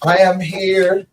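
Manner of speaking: slow genie impression; drawn-out magical genie. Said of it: "Sound like the genie".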